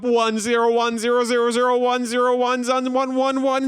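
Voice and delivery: mock robot beeping and binary. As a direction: chant ones and zeros like a robot. Pretends to be a robot.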